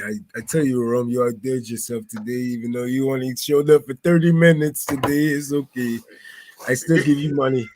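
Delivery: light fake Russian accent as a donor; joking Russian donor voice; playful Russian accent, partly dropped; mock Russian accent. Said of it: "my Russian accent".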